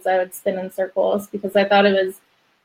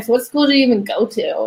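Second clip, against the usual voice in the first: giving her a hard time; faster than usual. Retold or imitated. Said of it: "I was giving her a hard time".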